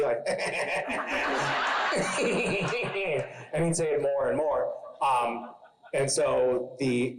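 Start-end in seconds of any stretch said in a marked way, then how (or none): 0.3-3.5 imitated child's giggle. Acts out child's gleeful reaction.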